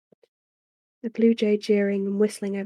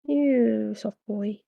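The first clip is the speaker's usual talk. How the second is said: slow tender pet-talk; slow cooing to the cat; much slower than usual. Real, not acted. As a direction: stretch the words out fondly.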